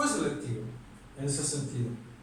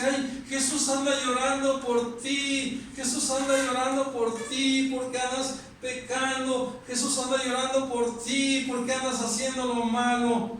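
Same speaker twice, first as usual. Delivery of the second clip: higher, whiny mock-pleading preacher; mocking tearful preaching; 5 semitones higher than usual. Mocking the preachers he disagrees with, higher whiny plea. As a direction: parody a weepy sermon, pitched up. Mocking a sentimental sermon style.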